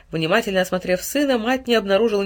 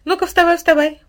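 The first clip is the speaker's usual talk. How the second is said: higher, louder wake-up call; waking call; 11 semitones higher, 6 dB louder than usual. A narrator's reading. Mother shaking her son awake, loud and high. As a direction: rouse the sleepy boy, briskly.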